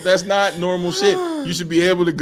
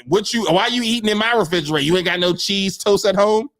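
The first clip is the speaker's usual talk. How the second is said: scolding mom. Retold or imitated. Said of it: "I just wanted to be".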